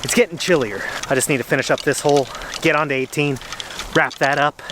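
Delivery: talking out of breath while walking uphill; winded from pushing the cart. Real, not acted. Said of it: "the reason why I'm out of breath".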